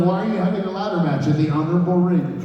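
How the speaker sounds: half-hearted imitation of an irate boss; mock yelling.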